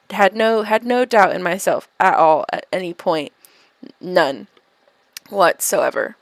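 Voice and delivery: dry sarcasm with weighty pauses before the last words; sarcastic. Shown as a demonstration. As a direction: feign total self-confidence, pausing before each final emphatic word.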